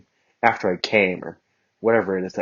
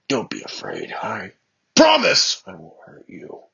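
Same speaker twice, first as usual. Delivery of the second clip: serious; 4 dB louder, slower than usual. Acted. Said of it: "Bakugo said seriously".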